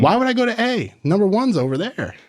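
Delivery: high, goofy meathead voice; high-pitched bro parody; mock dumb gym bro. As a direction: play the cocky bro who skips ahead.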